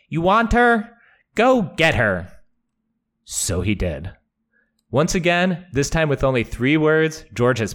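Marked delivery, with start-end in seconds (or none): 0.1-2.3 mocking taunt. Hoat taunting Jaime.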